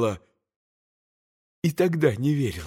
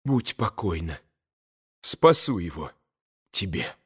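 much softer and lower, hushed; quick whisper; 8 semitones lower, 6 dB quieter than usual. A narrator's reading. Katya to Grushenka, hushed low promise. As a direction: hush the promise under the breath. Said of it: "быстро прошептала Катя".

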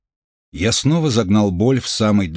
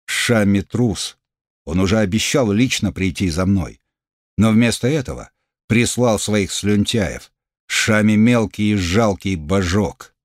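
contemptuous. Acted. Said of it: "добавив голос презрения".

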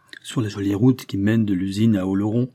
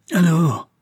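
a sharp furious cry, higher and louder; roar of fury; 7 semitones higher, 6 dB louder than usual. A narrator's reading. Louis roars in fury at Raoul's calm answer. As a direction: bark it out in a rage. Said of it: "un rugissement de fureur".

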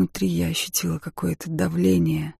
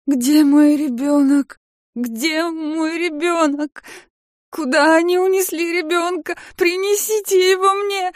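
much higher, slow, crying plea; frantic crying; 11 semitones higher, 5 dB louder, slower than usual. Acted. Mother crying to the room for her lost baby. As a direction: sob out the demand in desperate panic.

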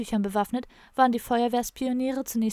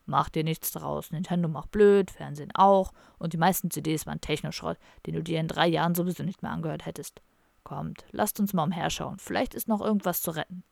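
mock comforting; 4 semitones lower than usual. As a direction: pretend to console him. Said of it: "sehr einfühlsam". (gespielt tröstend, tiefer und langsam)

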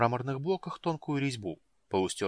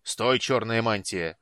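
loud, slow draconid bark; barked order; 6 dB louder, slower than usual. Acted. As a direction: halt him with a harsh bark. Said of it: "рявкнул Базак". (громкий рявкающий окрик)

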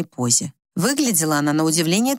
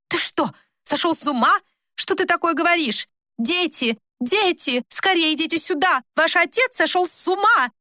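outraged cries; 10 semitones higher than usual. A narrator's reading. Wife screams to the children that father has gone mad. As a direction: rouse the household in a panic.

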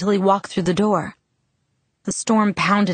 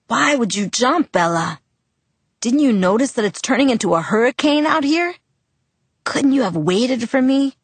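higher, exasperated scolding; angry; 6 semitones higher than usual. Acted. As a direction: scold her out of relieved fear. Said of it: "Anger filled his tone".

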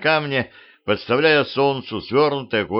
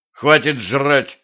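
slow, emphatic yell; shout; 4 semitones higher, 3 dB louder, slower than usual. Acted. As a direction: bark it at the glutton. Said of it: "крикнул я ему". (громкий окрик)

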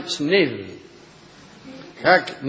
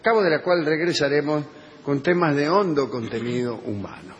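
mock radio announcer, formal; locutor. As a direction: announce the break like a host. Host announces a break. (tono de locutor de radio)

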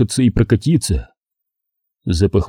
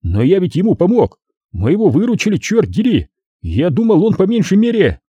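higher indignant voice; protesting Wayne; 8 semitones higher than usual. A narrator's reading. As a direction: argue your share. (возмущённо)

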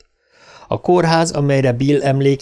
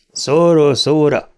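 satisfied grumble; 3 semitones higher, 4 dB louder, slower than usual. Acted. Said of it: "dönnyögte a taxis elégedetten".

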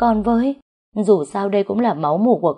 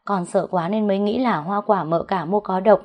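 slightly raised, mildly weepy plea; understated tearful servant girl; tearful pleading; 3 semitones higher than usual. Acted. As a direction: beg for mercy with a touch of crying. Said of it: "Nó bị bà đánh thì khóc lóc nói".

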